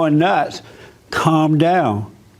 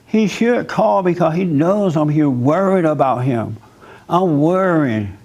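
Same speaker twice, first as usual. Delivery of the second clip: imitating wife; slower than usual. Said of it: "And then she goes".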